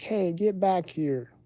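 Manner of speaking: mock dog-owner yell; calling the dog. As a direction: call a runaway dog back, stretching the words. Acted owner calling runaway dog.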